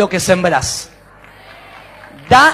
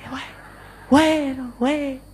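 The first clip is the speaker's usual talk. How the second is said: soft repeats trailing away; fading echo; 7 dB quieter than usual. Acted. Mountain repeats the boy's last word, echoing faintly. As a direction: let each repeat die away like an echo.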